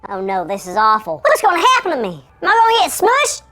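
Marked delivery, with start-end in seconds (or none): 1.2-3.4 rising squeaky panic, louder at the end; chipmunk voice. Acted. Shrunken Carl fearing he'll be crushed, squeaky and rising. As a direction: climb higher with each fear. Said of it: "Why do I sound like a chipmunk?".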